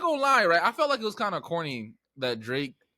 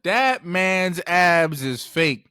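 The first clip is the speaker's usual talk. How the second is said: louder, slow mock rant; mock outrage; 5 dB louder than usual. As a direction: drag each word out, indignant. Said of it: "now everybody's like".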